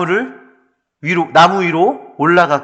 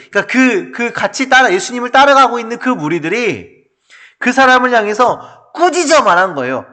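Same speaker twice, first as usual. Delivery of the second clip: ordinary delivery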